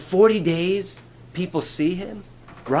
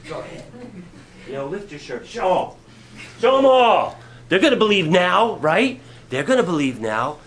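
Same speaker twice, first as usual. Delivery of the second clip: eager Peter. Retold or imitated. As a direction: egg him on, then call out. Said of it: "Peter's going".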